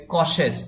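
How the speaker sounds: কশেস said carefully as "kɔ-shes"; correct pronunciation. Shown as a demonstration. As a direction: model "কশেস" slowly, syllable by syllable. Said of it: "এই শব্দটির সঠিক উচ্চারণ হবে". (সঠিক উচ্চারণ "কশেস", স্পষ্ট করে)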